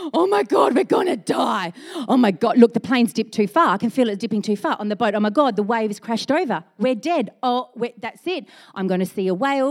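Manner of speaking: panicked yelling of doomed sailors; mock panic. Disciples wake up in the storm, hammed-up panicked yelling. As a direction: yell like the boat's going down.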